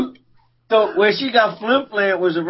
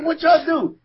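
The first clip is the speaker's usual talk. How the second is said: incredulous shout; 9 semitones higher than usual. Retold or imitated. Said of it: "I said".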